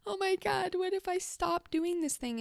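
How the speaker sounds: mock panic. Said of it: "I get this fear response".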